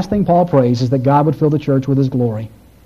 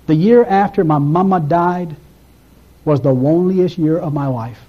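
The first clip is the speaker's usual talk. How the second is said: David Ring's way of saying it. Retold or imitated. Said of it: "That's how he says it".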